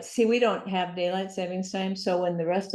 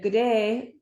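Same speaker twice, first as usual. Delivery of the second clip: put-on Australian accent; 4 semitones higher, 4 dB louder than usual. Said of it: "I'm becoming more Australian".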